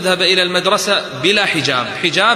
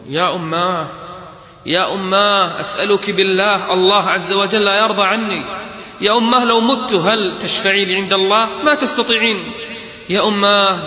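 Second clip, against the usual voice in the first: higher, louder earnest plea to mother; pleading daughter; 5 semitones higher, 3 dB louder than usual. Retold or imitated. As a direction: beg her mother with all her heart. (توسل ابنة لأمها بصوت أعلى)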